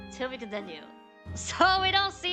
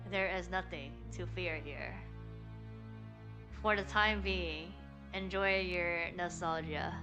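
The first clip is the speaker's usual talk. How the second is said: witch voice; 2 semitones lower, 4 dB quieter than usual. Acted. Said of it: "Eve's, uh, witch voice now".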